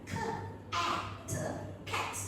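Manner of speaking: K, at, cat blended slowly apart; slow blending. Shown as a demonstration. Teacher modelling sound blending for trainees, slow. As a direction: pull K and at apart, then say cat. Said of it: "You blend the sound slowly".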